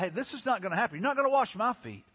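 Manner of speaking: mildly indignant retelling of a disciple's protest. Retold or imitated. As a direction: object firmly, leaning on each refusal. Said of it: "he was indignant".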